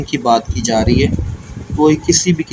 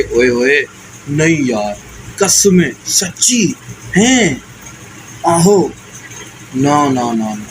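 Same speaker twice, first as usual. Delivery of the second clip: exclamations; slower than usual. Shown as a demonstration. Teacher acting out example interjections, lively and exclaiming. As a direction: throw each one out as if it just slipped out. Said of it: "जैसे आप उर्दू में समझ लें कि".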